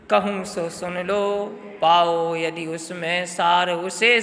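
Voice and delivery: slow, measured poetic recitation; poem recitation. Shown as a demonstration. Teacher reciting Kaikeyi's remorse verses to class, slow and solemn. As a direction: recite the verse slowly and gravely. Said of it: "वो कह रही हैं".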